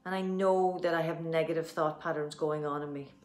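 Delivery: steady earnest affirmation, slowing on the last line; tapping affirmation. Acted. Coach repeating the affirmation for viewers, steady and earnest. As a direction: say it as a calm self-belief statement.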